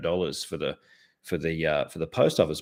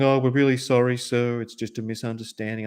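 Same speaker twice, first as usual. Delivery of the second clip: higher, placating customer-service voice; apologetic staff; 5 semitones higher, 3 dB louder than usual. Retold or imitated. Postal staff apologise to complaining customer, mimicked placating voice. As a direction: mimic a polite official smoothing things over. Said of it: "they were just going".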